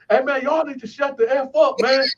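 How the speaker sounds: mildly mock outrage, voice pushed up; retold indignant complaint. Cellmate at the bars answering the tier, imitated indignant yelling.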